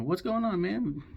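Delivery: high-pitched buddy greeting, mock astonished; acted surprise. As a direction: imitate a pal caught by surprise. Friends greet returning Finn in retelling.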